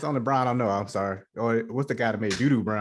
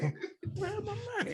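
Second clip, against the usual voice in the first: gruff impatient scolding; 6 dB quieter than usual. Pretend. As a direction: bark it like a furious landlord. Mock demanding money.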